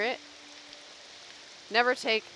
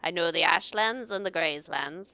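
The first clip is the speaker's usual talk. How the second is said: rough gravelly NPC hunter. Acted. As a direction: growl it out like a grizzled hunter. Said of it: "you like my gravelly voice".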